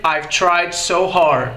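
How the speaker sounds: slow, clear model sentence; slow demo. Shown as a demonstration. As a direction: spell it out slowly for students. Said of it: "Você pode dizer".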